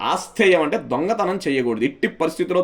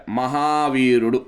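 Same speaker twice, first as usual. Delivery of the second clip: slow, lower-pitched delivery; drawn-out key name; 4 semitones lower, much slower than usual. Real, not acted. Teacher repeating the key name to students, slowly. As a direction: stretch the name out for learners.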